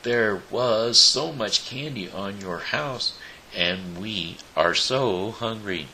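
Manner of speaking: sweetly explaining to the witch; as sweet as possible. A narrator's reading. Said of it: "as sweetly as she could".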